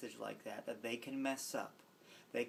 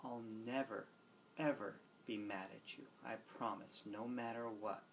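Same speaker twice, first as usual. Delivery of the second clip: soft, tender promise; reassuring; 7 dB quieter than usual. Retold or imitated. Aunt promising a child she is never mad, softly reassuring. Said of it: "I have a little speech I give".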